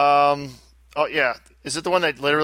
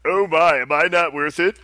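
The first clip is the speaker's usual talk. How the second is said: George Takei. Acted.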